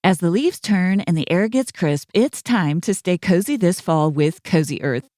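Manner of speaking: smooth, upbeat sponsor read. Acted. Host reads the BetterHelp sponsor spot: easy ad read. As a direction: sell it warmly but plainly.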